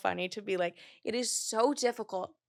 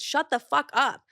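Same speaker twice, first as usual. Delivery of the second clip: getting mad; 5 semitones higher, 3 dB louder, slower than usual. Real, not acted. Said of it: "genuinely getting re-mad".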